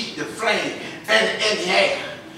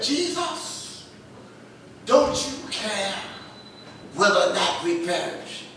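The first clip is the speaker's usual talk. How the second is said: a hint of the panicked disciples; 3 semitones lower, 7 dB quieter than usual.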